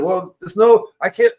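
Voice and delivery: the worm apologises, stuck. Pretend. Worm replies.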